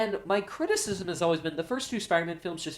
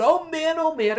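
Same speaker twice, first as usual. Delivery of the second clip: excited; 10 semitones higher, 5 dB louder than usual. Retold or imitated. Crowd freaking out.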